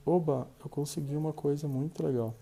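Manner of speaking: happy words said softly, slumped and flat; dejected quiet voice. Shown as a demonstration. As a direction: mumble good news as if defeated. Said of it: "falando baixinho".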